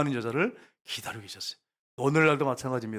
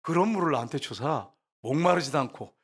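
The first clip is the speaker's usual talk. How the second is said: mock-pious request with an edge; prickly plea. The woman asking Jesus for that water, prickly. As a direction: imitate a touchy woman pleading. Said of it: "얼마나 까칠한지 보세요".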